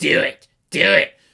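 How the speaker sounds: slow, drawn-out, rough, loud voice. Comparing a mother's urging to a film scene: Palpatine voice. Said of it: "Lord Palpatine in episode three of Revenge of the Sith going".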